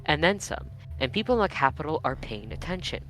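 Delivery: lightly done news anchor read; newscaster voice. Shown as a demonstration. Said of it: "let me put on my best newscaster voice".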